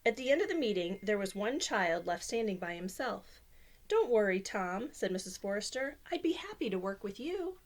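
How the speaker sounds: lively storybook reading voice; reading to children. Acted. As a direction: read it like bedtime story time. Reads picture book aloud.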